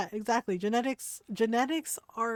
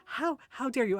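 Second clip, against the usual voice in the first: higher, stammered mock outrage; mock indignation; 4 semitones higher than usual. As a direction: imitate a shocked woman sputtering HOW. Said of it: "like, gasping".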